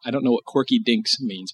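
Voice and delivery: ordinary talk, nothing marked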